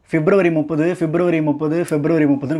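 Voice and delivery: lightly imitated comic refrain, repeated; a hint of a film comedian's line; Vadivel. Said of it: "Vadivel சொல்லுவார்".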